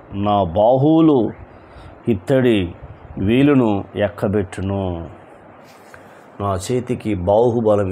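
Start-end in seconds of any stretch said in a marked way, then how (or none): 0.1-5.1 నా బాహువులు, ఇత్తడి, వీలును ఎక్కబెట్టును each said slowly with pauses between; deliberate slow repeat of the verse; slow, word by word. Shown as a demonstration. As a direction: spell it out phrase by phrase. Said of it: "verse repeated word by word".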